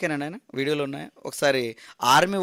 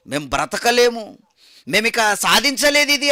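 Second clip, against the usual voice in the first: anguished lament; 5 semitones higher than usual. Acted. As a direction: wail over the failed marks. Students voiced despairing. (బాధతో గట్టిగా వాపోవడం)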